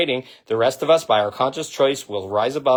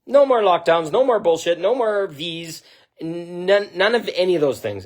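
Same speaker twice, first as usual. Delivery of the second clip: defiant rallying shout; 5 semitones higher than usual. Pretend. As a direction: shout it out as a crowd would, refusing. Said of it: "you're gonna fucking stand up and say".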